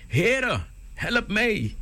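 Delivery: hoge, paniekerige noodkreet; angstige schreeuw. A narrator's reading. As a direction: roep in doodsangst om hulp, veel hoger. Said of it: "schreeuwde hij". (hoge angstige hulpkreet)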